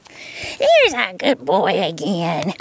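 stretched, slow sing-song praise; slow drawn-out praise. Real, not acted. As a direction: drag out each word lovingly.

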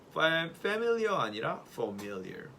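familiar contrasted slowly, wrong stress then right. Shown as a demonstration. Teacher contrasts wrong and right familiar for class. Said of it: "같이 해서".

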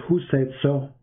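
low, dismissive "Who said so?"; mock opponent's question. Mocking the Muslim debater's reply, low and dismissive. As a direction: toss off "Who said so?" flatly, imitating him. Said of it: "He said".

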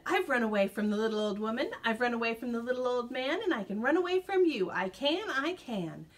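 quick, cheeky singsong taunt; taunting gingerbread man. Acted. Gingerbread man teasing the cow as he runs. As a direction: rattle it off fast, teasing.

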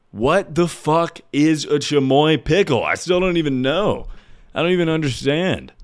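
can't believe what this is; baffled disbelief. Real, not acted. Baffled by the product.

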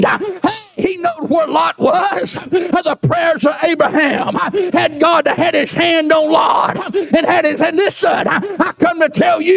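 Sunday preacher calling the room to see; preaching at full force. Acted. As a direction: drive the point home to the church. Preacher rising again.

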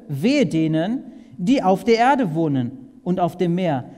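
declaring doom loudly; loud proclamation. Acted. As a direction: ring out the woe warning loudly. Reads woe verse, then rereads slowly.

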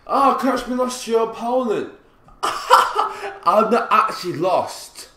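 high, loud voice breaking into laughter; incredulous laughing. Real, not acted. Gamer reacting to connection message, incredulous laugh.

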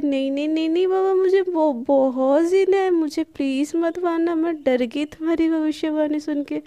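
rapid string of panicky no's, hammed up; frightened pleading. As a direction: play-act begging for your life. Pleading not to be killed.

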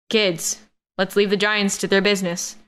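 ordinary delivery

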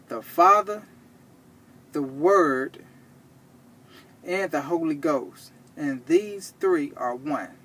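measured, slow verse reading; scripture reading. Real, not acted. Preacher rereads for those who didn't understand, measured scripture reading. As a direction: read the verse steadily, pausing between the names. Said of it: "let's read it again".

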